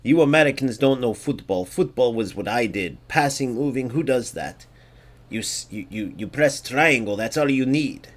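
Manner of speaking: mock foreign football snob accent; a vague put-on foreign accent, sneering at Americans. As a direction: parody opponent in an unplaced foreign accent. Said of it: "I don't know what accent that is".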